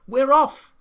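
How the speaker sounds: high, loud squeal of a monkey; monkey's excited cry. A narrator's reading. Monkey cries out to friends setting off, excited. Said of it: "cried the monkey".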